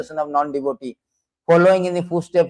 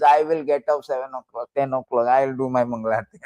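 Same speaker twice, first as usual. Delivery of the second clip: slightly lower, offhand mimicry; lightly voiced self-willed devotee; 5 semitones lower than usual. Devotee setting his own worship time, lightly mimicked. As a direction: lightly mimic someone making their own schedule. Voicing a lazy devotee's excuse.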